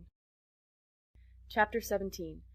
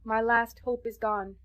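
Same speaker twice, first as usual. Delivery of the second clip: calm despair; 3 semitones higher, 5 dB louder, slower than usual. Acted. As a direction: let the hope drain out, slowly. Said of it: "calm with despair".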